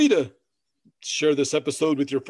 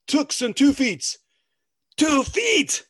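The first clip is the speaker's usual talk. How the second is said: squeaky mock voice; 11 semitones higher, much slower than usual. Mocking the big folk.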